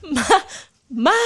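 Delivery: normal talking voice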